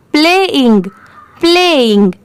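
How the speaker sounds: "प्लेइंग" as play plus ing, both parts clear; two parts joined. Shown as a demonstration. Teacher blending the parts for learners, careful "प्लेइंग" said twice. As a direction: join "प्ले" and "इंग" into "प्लेइंग", carefully. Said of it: "दोनों मिला देंगे तो".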